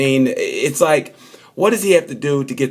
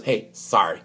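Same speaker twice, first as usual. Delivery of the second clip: soft sorry; 3 semitones lower, 6 dB quieter than usual. Retold or imitated. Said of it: "Dovey goes".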